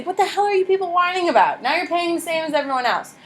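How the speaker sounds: high-pitched indignation, acted out without shouting; mock angry British. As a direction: imitate fed-up British scolding whiny colonists. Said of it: "They were angry, absolutely".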